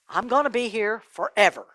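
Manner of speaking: subdued, falling statement; sinking realization. Acted. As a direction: let the awful truth sink in, pausing along the way. Rich man absorbs the verdict.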